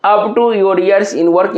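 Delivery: very slow, every word spaced apart; slow dictation. Shown as a demonstration. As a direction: spell out the idiom slowly for students. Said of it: "अब आप लोगों का भी बारी है".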